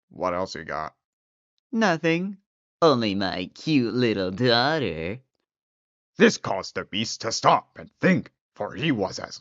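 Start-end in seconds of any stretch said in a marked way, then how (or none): 1.7-5.2 put-on old man voice. Old man offers daughter.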